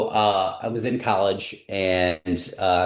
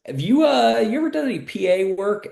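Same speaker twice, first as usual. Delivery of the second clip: imitating the boss; 3 dB louder than usual. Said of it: "he goes".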